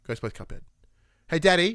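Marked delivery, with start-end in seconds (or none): 1.3-1.7 put-on raised, higher child's call; imitated calling from another room. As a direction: call out for dad through the house. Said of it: "from the other room".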